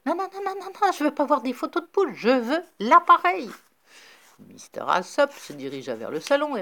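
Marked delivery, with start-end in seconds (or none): 0.0-3.5 high, fast pleading no; exasperated high-pitched no; frantic refusal. A narrator's reading. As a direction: wave off the photos in desperation. Rafferty refuses hen photos frantically.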